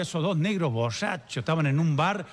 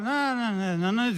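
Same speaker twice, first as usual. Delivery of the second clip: put-on old father-in-law; 5 semitones higher, much slower than usual. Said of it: "le habla el viejo".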